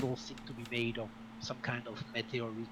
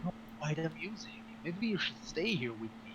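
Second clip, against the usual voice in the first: ogre voice; 4 semitones higher than usual. Acted. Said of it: "the ogre looks at you and says".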